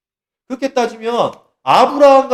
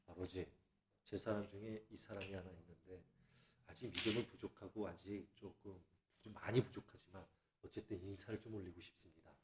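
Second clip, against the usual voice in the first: hushed, much softer and lower plea; humble introduction; 11 semitones lower, 31 dB quieter than usual. Shown as a demonstration. Preacher demonstrates introducing someone to God, hushed and humble. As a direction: murmur it respectfully to the Father. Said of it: "이런 식으로".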